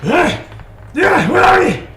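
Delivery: high, loud bewildered yell; startled shout. Acted. Dazed guard yelling for his attacker. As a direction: call out wildly for the attacker.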